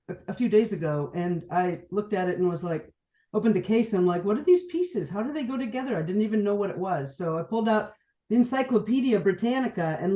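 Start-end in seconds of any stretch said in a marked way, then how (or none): 4.2-6.0 higher-pitched baffled questions, lightly acted; mock bewilderment. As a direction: retell your puzzlement in a raised pitch. Retells puzzlement at trombone pieces.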